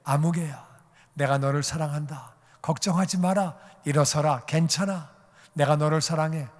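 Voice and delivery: calm, gentle comforting in short phrases; steady someone who is struggling; mildly voiced loving encouragement; tender reassurance.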